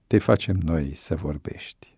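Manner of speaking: threat whispered low and close; menacing whisper. Acted. Chief whispers a threat to George at the door, menacing. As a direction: hiss the threat, unvoiced.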